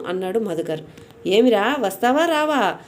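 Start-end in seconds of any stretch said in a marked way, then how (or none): 1.3-2.7 mock roar, pitch up on వస్తావా; roaring demand. A narrator's reading. Yama's messengers demand he come out, mild mock roar. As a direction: messenger of death roars at the boy to come out, lightly raised roar. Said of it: "దిక్కులు పిక్కటిల్లేటట్లు గర్జించారు".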